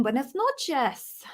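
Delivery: slow, careful Spanish "Buenas noches"; Spanish phrase. Shown as a demonstration. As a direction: try out your only Spanish. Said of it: "That's about the extent of my Spanish".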